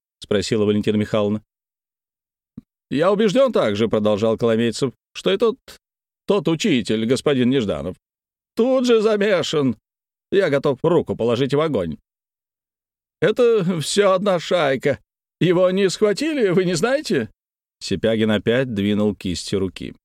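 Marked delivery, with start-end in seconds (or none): 2.9-3.9 high, self-important; pompous declaration. Acted. 5.1-17.3 high, eager denouncing; excited accusation. Acted. Kolomeitsev ranting accusations.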